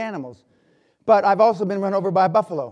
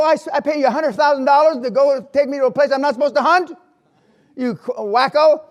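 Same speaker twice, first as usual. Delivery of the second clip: outraged; 8 semitones higher, 7 dB louder than usual. Retold or imitated. Outraged at guide's hunting spot.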